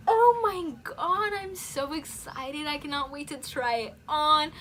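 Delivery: high, loud gushing squeal; overexcited squeal. Retold or imitated. Girl gushing to her family about the arriving dress, squealing with excitement. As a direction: squeal it like you can't contain yourself. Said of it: "I was beyond excited".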